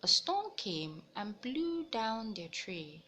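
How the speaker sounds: put-on lively storybook read-aloud for young listeners; reading to children. A narrator's reading. Teacher reading a picture book to the class, animated storytelling. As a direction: tell it brightly, like story time.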